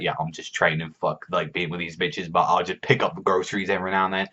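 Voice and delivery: unbothered. Acted. Acting out an unbothered Laxus.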